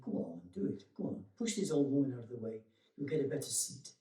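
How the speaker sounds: a little devil on your shoulder coaxing you to push ahead, lightly voiced; tempting inner voice of Mara. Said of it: "that's just the voice of Mara".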